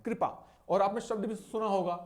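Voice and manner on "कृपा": "कृपा" said as "kripaa"; correct pronunciation repeated. Shown as a demonstration. Teacher isolates the name's first part, "कृपा" as "kripaa". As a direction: say "कृपा" with a short ri. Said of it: "उन्हें कृपाचार्य पढ़ते हैं".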